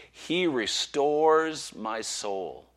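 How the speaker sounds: very slow, gentle reread. Acted. Preacher rereading the psalm to rest weary listeners, slow and gentle.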